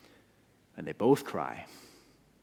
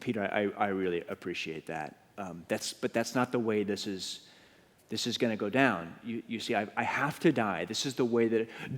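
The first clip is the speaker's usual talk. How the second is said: tender Jesus; 3 semitones lower, 4 dB quieter than usual. Acted. Jesus gently telling Peter he'll die.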